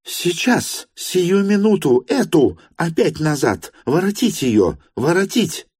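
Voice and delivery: high, urgent, impatient commands; impatient orders. Acted. Varvara Petrovna impatiently orders Sofya brought back. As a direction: hurry them, bring her back. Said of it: "В нетерпении".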